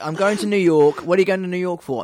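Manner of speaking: mock customs exchange. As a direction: play the arrival card back and forth. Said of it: "She's like".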